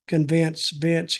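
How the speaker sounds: "convinced Vince" slow, rhyming emphasis; punning repeat. Shown as a demonstration. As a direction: lean on the rhyme in "convinced Vince". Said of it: "get it?".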